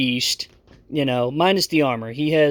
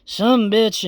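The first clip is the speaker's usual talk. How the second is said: put-on high, slow slurred drunk voice; a drunk samurai in a higher voice; 8 semitones higher, slower than usual. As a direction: slur it like a drunk. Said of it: "And he says".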